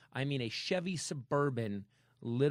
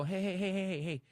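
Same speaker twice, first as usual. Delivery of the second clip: a touch of raised, higher warning; mild mock shout; 7 semitones higher, 3 dB louder than usual. Telling a bystander to stop, mild shout. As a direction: stop them fast, half-shouted. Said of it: "And I go".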